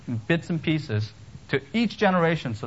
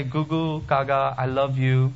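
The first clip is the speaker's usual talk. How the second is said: put-on baby talk; slower than usual. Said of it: "And it's the baby talk".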